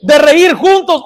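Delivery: slow and loud, landing on "juntos"; emphatic answer. Shown as a demonstration. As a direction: answer the question with weight, slowly. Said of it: "¿Han dejado de qué?". (respuesta enfática, lenta y fuerte, cayendo en "juntos")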